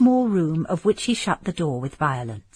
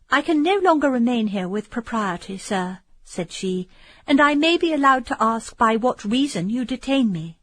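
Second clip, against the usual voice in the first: roused; 5 semitones higher than usual. Acted. Roused Emily demands.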